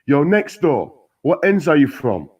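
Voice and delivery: shouting through a prison window, high and loud; angry inmate yelling across the wing. A narrator's reading. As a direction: call out angrily next door, slow and heavy. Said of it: "sounded real angry".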